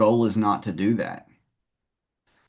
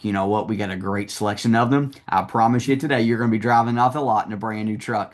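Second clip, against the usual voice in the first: confident salesman; faster than usual. Shown as a demonstration. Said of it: "I'd be like".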